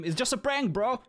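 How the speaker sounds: very high, loud comic yell; mock scream. Player screams his prank excuse, hammed-up yell. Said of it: "I will scream".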